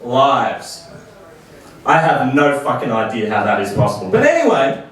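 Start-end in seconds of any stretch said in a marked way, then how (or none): 0.0-0.8 slow sign reading. Retold or imitated. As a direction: read out slowly. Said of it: "It said".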